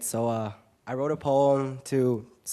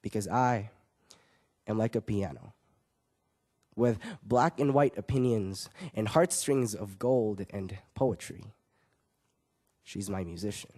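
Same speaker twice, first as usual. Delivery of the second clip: slam poetry. Acted. Young poet closes his poem on poetry, slam poetry. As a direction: perform it as slam verse with weighty pauses.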